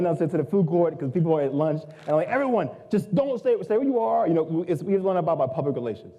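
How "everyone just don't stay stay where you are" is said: re-enacted high-pitched call to the room. Organizer to people at lunch in the food court, calling out. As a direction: retell addressing a crowd, pitched well up.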